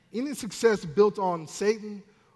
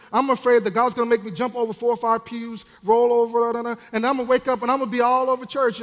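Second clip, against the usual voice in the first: mock worry; 4 semitones higher, 5 dB louder, faster than usual. Voices a churchgoer's exaggerated fears.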